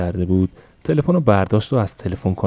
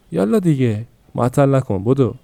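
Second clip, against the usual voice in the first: higher, pushy urging to get moving; impatient hurrying; 5 semitones higher than usual. Acted. Mother hurries daughter out.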